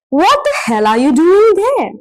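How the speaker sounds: mock outrage with a punch on "hell"; strong emotive question. Shown as a demonstration. Teacher demonstrating an informal intensifier, emotive exclaimed question. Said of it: "expressing strong emotions".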